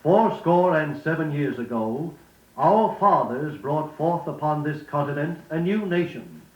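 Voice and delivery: measured, stately speech read as a model; formal oration. Shown as a demonstration. Reading the Gettysburg Address to students as a model, stately oration. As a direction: deliver it like a solemn memorial address. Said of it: "Then listen carefully to Lincoln's Gettysburg Address".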